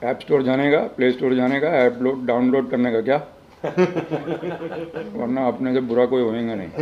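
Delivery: light Mumbai street tapori talk; casual Bambaiya tapori, lightly done; tapori slang. Shown as a demonstration. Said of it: "अपन टपोरी भाषा में बोलेगा".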